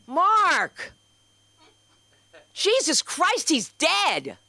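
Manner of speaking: high, loud alarmed call. Real, not acted. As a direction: yell across the room at him. Calling out to husband in audience.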